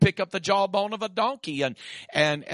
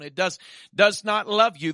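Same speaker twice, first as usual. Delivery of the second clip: preaching emphasis; 3 semitones higher, 6 dB louder than usual. Real, not acted. Preacher repeats to congregation.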